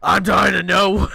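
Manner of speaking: loud, high, campy cry; flamboyant shout. Acted. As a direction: burst out, dying with curiosity. The bear's flamboyant outburst.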